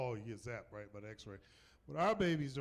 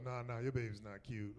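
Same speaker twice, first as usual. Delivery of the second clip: low-key, matter-of-fact letdown; blunt refusal; 3 semitones lower than usual. Retold or imitated. Nurse answering a doting parent, bluntly unimpressed. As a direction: puncture the gushing with a plain no.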